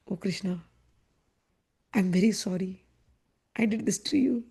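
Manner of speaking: soft, low remorseful voice; hushed acted contrition; tender apology. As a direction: apologise gently and quietly. Acting Radha's tender apology.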